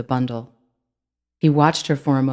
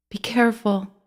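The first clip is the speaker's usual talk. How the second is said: earnest warning; 8 semitones higher than usual. A narrator's reading. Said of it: "and meant it".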